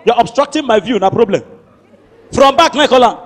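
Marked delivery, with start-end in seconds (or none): 0.0-1.4 proper English. Retold or imitated. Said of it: "for Shegu to speak English".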